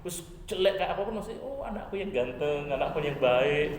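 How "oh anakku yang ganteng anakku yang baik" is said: slow, fond praise of a son; a mild doting mother's voice. Acted. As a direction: coo it like a proud mother.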